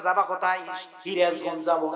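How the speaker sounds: "হিরাজগঞ্জ" said with h in place of s; "হিরাজগঞ্জ যাবো" in Sirajganj speech, h for s; Sirajganj dialect. Retold or imitated. Preacher imitates Sirajganj folk saying "হিরাজগঞ্জ" with h. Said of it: "দন্ত স বলতে পারে না".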